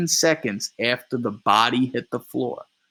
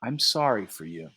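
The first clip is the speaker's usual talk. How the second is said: sadly; 5 dB quieter than usual. Acted. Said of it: "Shaking his head sadly".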